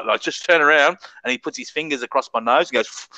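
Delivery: ordinary delivery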